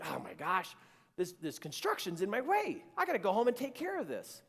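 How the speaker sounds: acted-out impatience, rising in pitch; irritated. Driver fuming at construction in his way, irritated. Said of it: "starting to get a little irritated".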